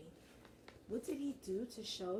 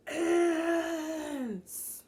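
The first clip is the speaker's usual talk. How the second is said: booming high shout; yelling; 8 semitones higher, 12 dB louder than usual. Acted. Father spotting ants in the kitchen, booming yell. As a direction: bellow it at the ants. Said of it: "Lucas's father was yelling".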